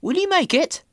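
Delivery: a driver worried about the hill; a hint of concern; lightly voiced driver. A narrator's reading. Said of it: "Thomas's driver".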